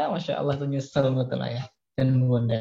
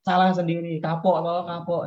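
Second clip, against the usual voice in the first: impatient gloating; 3 semitones higher than usual. Retold or imitated. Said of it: "kadang kayak gitu juga suka nggak sabar".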